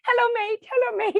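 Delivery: put-on little boy greeting everyone on the beachfront. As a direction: chirp it like a tiny boy greeting strangers. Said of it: "he was like".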